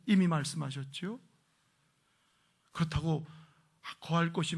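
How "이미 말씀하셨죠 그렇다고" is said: usual speaking voice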